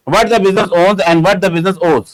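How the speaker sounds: reads each word out slowly for students to copy; dictating the line word by word; slow dictation. Shown as a demonstration. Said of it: "reads the definition out for dictation". (धीरे धीरे लिखवाते हुए)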